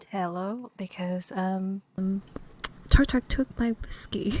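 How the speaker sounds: put-on drunk Haraway. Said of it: "show us drunk Haraway".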